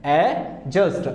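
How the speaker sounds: एडजस्ट slowly split as "a... just"; एडजस्ट in two slow parts, no D; silent D, drawn out. Shown as a demonstration. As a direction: sound out एडजस्ट without the D, slowly. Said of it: "D here is the silent".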